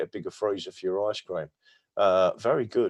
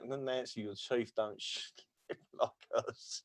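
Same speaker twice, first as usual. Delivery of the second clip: laughing mock line; 13 dB quieter, slower than usual. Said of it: "the accent's a bit off".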